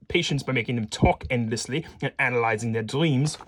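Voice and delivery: put-on indignant Viennese-accented professor. Professor dismissing the handwriting as false, Viennese accent. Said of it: "shall I do a Viennese as-, accent".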